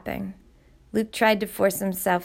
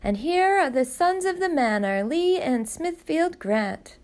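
a mock butler's grand introduction; Mrs. Grant rehearsing the butler's fanfare; mimicking the butler's announcement; 8 semitones higher than usual. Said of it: "He'll say".

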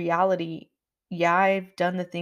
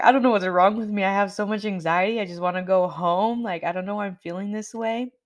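distressed; 3 semitones higher, 4 dB louder, faster than usual. Retold or imitated. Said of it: "I started bawling".

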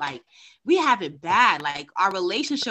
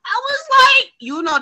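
ordinary delivery

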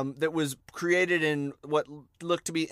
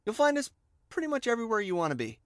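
radio voice; 7 semitones higher, much faster than usual. Acted. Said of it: "That's my radio voice".

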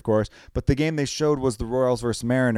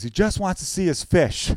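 Kramer; 5 semitones higher than usual. Retold or imitated. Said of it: "Kramer's driving him. He goes".

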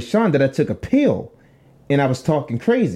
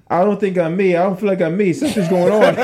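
higher, mock-worried confession to Mom; retold panic; 4 semitones higher than usual. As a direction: act mildly panicked, breaking into laughter. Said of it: "I'm panicking".

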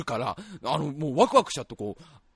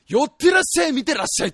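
loud, high barker's cry; showman's call; 7 semitones higher, 6 dB louder than usual. Retold or imitated. Acts a showman calling a crowd.

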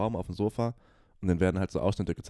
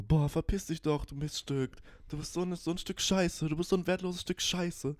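mock bitchy insult; 10 semitones higher, 4 dB quieter than usual. Sisters insulting each other.

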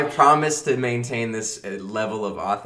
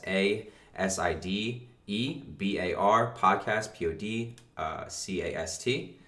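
slow spelling out; 7 dB quieter, slower than usual. Shown as a demonstration. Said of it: "That was so hard for me to spell".

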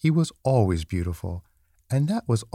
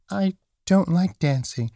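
high little rabbit voice; reluctant small rabbit, pitched up; little toy rabbit; 8 semitones higher than usual. A narrator's reading. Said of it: "he said".

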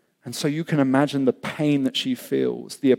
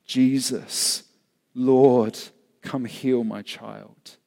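last desperate cry; 2 semitones lower, much slower than usual. Acted. Mother begs Jesus to heal her child, subdued desperate plea. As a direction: plead slowly, as a last resort. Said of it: "her last depth cry".

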